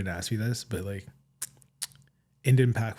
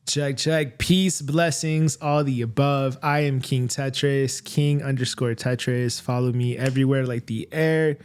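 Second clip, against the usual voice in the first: rapper voice. Pretend. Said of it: "rapper voice".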